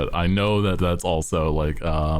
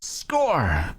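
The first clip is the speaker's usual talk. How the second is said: excited cheer; 8 semitones higher than usual. Pretend. Surfer exclamation in game.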